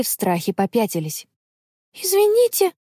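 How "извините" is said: high squeaky apology; squeak. Acted. Connie apologising to the scary old man, squeaky. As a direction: squeak it out like a scared little girl. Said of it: "пропищала Конни".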